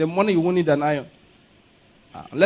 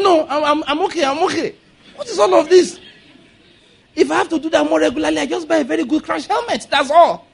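laughing retelling; 9 semitones higher than usual. Retold or imitated. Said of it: "So I said".

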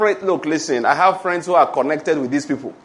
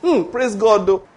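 mock shocked gossip; 3 semitones higher, slower than usual. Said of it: "when you now hear that".

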